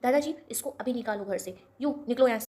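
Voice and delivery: loud, demanding get-out; angry order. Acted. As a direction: throw him out of the house. Kaya orders Prithvi out. (गुस्से में ज़ोर से हुक्म)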